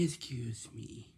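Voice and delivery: slow, careful "Excuse me."; a teacher showing a polite phrase, slowly; polite model line. Shown as a demonstration. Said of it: "You say".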